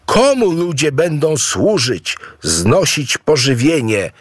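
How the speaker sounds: a touch of grumbling complaint; complaining. A narrator's reading. Wife complains to Mawungu, lightly grumbling. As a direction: grumble it like a put-upon wife. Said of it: "wyrzekała Aboe".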